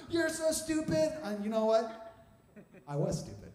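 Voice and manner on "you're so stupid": high, slow mock taunt; imitated ridicule, drawn out; mocking crew laughter. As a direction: jeer it like laughing coworkers. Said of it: "They all start laughing at me".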